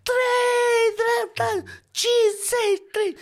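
very high, loud frantic co-driver calls; co-driver screaming notes over a broken intercom; screamed pace notes. Retold or imitated. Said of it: "Și țipa și mai tare".

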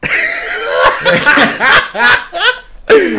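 long high burst of laughter; real long laugh; high loud laugh. Real, not acted. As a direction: crack up loudly. Laughs at own story.

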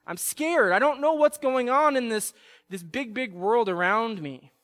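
put-on child crying out. Scared child calling to his father for help. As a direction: cry out like a scared little boy to his dad. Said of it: "cries out".

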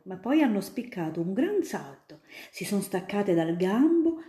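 put-on a grown-up spinning tales for a child; student eagerly convincing little Ida; storytelling student. Student tells of butterflies.

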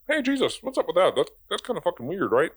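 mock disciples. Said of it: "they're like".

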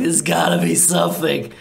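high, loud frustrated ranting; a lost vampire cursing his maze; grumbling Laszlo. Acted. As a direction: curse at the endless doors. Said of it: "he's like".

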